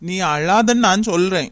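loud scolding. Acted. Scolding the crying bride.

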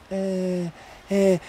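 mock a servile little grunt; servant's meek noise. Shown as a demonstration. Coach mimicking a servant for the sales team, meek "eh". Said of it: "Servants are like this".

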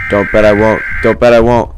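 loud, defiant repeated dare; loud taunt. Pretend. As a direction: shout the dare, keep pushing.

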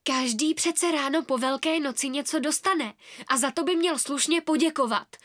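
put-on cross, indignant girl; a believer scolding her friends, upset. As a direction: scold them for being rude to the queen. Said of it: "zlobila se Ela".

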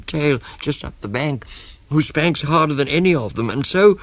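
high-pitched, breathless rattled-off list; elephant child. Acted. Elephant child explains all the spankings, high and rushing on. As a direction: pile up the list, high and mounting. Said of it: "said the elephant child most politely".

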